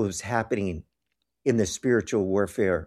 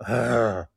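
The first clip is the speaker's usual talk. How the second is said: imitated growl. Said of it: "I hear this growling noise".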